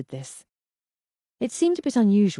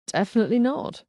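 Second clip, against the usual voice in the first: smiling; 6 semitones higher than usual. Acted. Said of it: "I could hear the smile in his voice".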